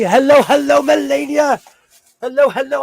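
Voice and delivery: cartoonish high greeting; high sing-song hello. Real, not acted. Greeting a viewer.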